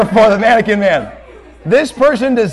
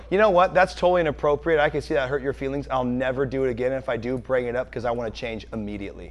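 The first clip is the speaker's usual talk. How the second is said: sincere apology; 10 semitones lower, 11 dB quieter, faster than usual. Shown as a demonstration. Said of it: "why don't you go".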